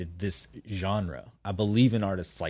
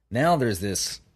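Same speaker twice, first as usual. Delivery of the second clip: burping; slower than usual. Real, not acted. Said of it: "excuse me, I'm burping".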